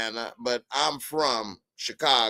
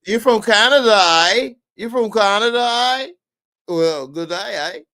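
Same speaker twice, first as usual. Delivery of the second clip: higher, hammed-up Canadian "aye"; badly faked Canadian accent, pitched up; attempted Canadian accent; 8 semitones higher, 6 dB louder than usual. Host teasing a viewer from Canada, mock Canadian accent. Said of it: "Is that Australia?".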